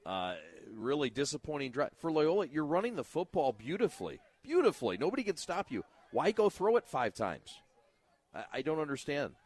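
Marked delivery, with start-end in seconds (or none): 2.0-7.5 excited. Real, not acted. Color man gushing about run game.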